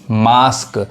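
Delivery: मास्क said with a long आ, like "mask"; teacher modelling मास्क with a long आ; model pronunciation. Shown as a demonstration. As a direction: say मास्क clearly, stretching the आ vowel. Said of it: "आ पढ़ा रहा है".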